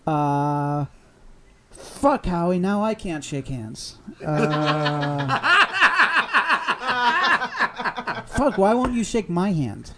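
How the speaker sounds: high, loud excited gushing; playing an overexcited fan greeting Howie. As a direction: burst out like a thrilled fan. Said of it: "You're just excited to tell him".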